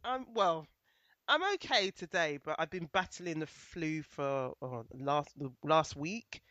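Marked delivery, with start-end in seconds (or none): 2.4-6.4 stuffy voice from the flu; bunged up with a cold; blocked nose. Real, not acted. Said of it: "I might sound a bit bunged up".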